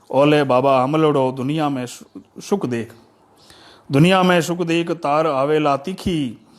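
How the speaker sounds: measured, metrical poem reading; declaimed folk poetry with pauses at each phrase; verse recitation. Acted.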